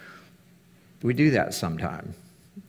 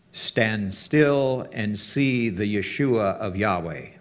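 divine command; much slower than usual. Acted. Voice of God quoted.

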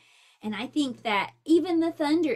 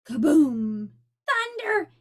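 scream; 3 semitones higher, 7 dB louder, slower than usual. Acted. Franklin panicking at the thunder, scream. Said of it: "he screamed next".

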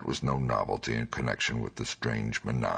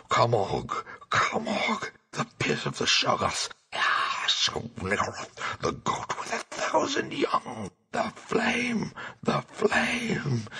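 panicked shrieking; 11 semitones higher, slower than usual. Acted. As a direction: scream it out as your mind is dragged away. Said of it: "he shrieked and leaped up".

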